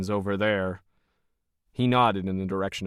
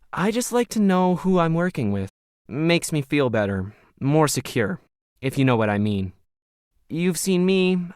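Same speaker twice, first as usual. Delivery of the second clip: lightly voiced smug operator, a touch higher; Logan, cold and smug; 3 semitones higher than usual. Smug Logan sizing up Krisha as hired help, lightly voiced.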